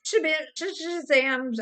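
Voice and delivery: fumbling the nonsense word while laughing; stumbling mock repeat. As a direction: try to repeat it and trip over it. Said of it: "if you repeated that and said".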